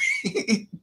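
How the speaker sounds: high-pitched helpless laugh; squealing giggle. Real, not acted. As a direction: crack up at your own impression. Teller cracks up at own impression.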